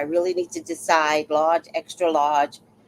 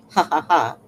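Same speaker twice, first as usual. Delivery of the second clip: mimicked fake laugh; 3 semitones lower than usual. Mimics neighbor's mocking laugh.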